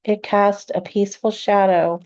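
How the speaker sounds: calm meditation guide with long, restful pauses; unhurried, soothing guidance, leaving room to breathe; guided meditation. Acted. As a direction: ease them gently into relaxation, phrase by phrase.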